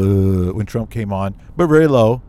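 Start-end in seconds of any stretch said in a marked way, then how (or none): 0.0-0.5 deep murmured uh like a grumbling crowd; imitated low crowd groan. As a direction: mimic a disapproving crowd rumble. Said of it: "a low kinda rumble of".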